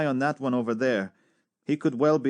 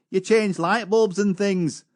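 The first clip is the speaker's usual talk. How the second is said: quoting the cadet; 7 semitones higher, 3 dB louder, slower than usual. Retold or imitated. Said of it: "He said".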